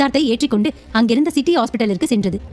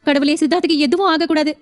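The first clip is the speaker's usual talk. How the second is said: higher, anxious prayer; wife praying at the hospital, higher; worried young wife; 4 semitones higher than usual. Acted. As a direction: plead with God for him.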